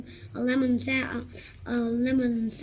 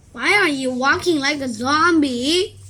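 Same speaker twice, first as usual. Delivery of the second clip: teasing; 3 semitones higher, 7 dB louder than usual. Acted. Rip teasing Alexander.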